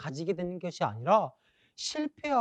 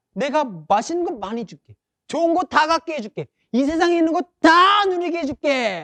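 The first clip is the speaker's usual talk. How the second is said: loud, high, tempting devil voice. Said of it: "라고 말하면서 마귀는 우리를 유혹하고".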